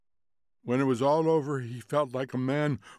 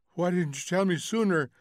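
raised, louder demand; urgent reproach; 6 semitones higher, 3 dB louder than usual. A narrator's reading. Husband reproaching wife for silence, raised voice. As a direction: demand an answer, upset.

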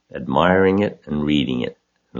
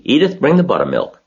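pitched-up call to his wife, brisk; 10 semitones higher, 5 dB louder than usual. A narrator's reading. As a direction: farmer calling his wife to fetch buttermilk. Zuckerman calling to wife.

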